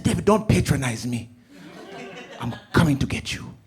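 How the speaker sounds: loud high laughing mother; loud amused mom. Retold or imitated. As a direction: declare it, half laughing. Mom deciding to come.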